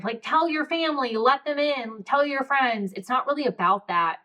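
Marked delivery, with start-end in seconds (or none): 0.2-2.9 lightly preachy, pitched up, a cheesy takeaway; mock moral lesson. Mocking the neat moral she refuses to give her audience, mock preachy. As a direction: poke fun at the tidy lesson voice. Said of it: "the lesson of this whole story".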